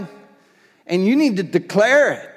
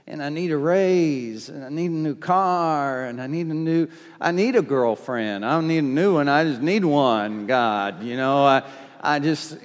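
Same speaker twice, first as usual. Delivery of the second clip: selfish wish-list prayer; 5 semitones lower than usual. Retold or imitated. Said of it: "I know you wanna pray".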